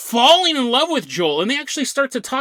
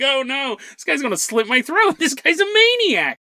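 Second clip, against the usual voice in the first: higher, mock-panicked driver; frightened taxi driver; 5 semitones higher than usual. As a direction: build to a hammed-up cry of alarm. Retold taxi driver fearing passenger.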